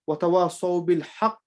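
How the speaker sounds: "بِالْحَقِّ" ended on an emphasised, bounced q; recite, stopping on "بِالْحَقِّ" with a small echo after the q; bounced stop. Shown as a demonstration. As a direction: bounce the doubled q closing "بِالْحَقِّ". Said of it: "bounce the voice a bit".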